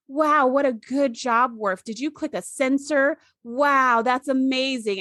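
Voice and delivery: put-on slow sing-song baby talk. Kern praising Worf like a baby. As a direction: coo at him like a toddler. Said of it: "talking to Worf like he's a baby".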